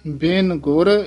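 ਬਿਨ ਗੁਰ, then a clear pause; pause after ਗੁਰ. Shown as a demonstration. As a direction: stop briefly after ਗੁਰ before going on. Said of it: "ਇੱਥੇ ਵਿਸਰਾਮ ਹੈ". (ਗੁਰ ਤੋਂ ਬਾਅਦ ਵਿਸਰਾਮ)

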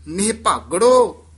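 ਨਿਹਭਾਗੜੋ loud and set apart with a stop after; stopped stress. Shown as a demonstration. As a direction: land firmly on ਨਿਹਭਾਗੜੋ, then halt. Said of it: "ਇੱਥੇ ਯਮਕ ਲਾ ਦੇਣੀ ਹੈ".

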